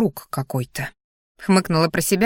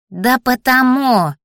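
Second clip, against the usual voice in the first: high, drawn-out hissy creature voice; angry hissing; 5 semitones higher, 4 dB louder, much slower than usual. A narrator's reading. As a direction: hiss it slowly as a cross talking plant. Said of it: "зашипела Кокоша". (сердито прошипеть)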